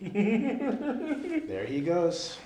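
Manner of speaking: dragged-out narration; drawn-out there he goes. Retold or imitated. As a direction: savour each word in disbelief. Watching friend run off.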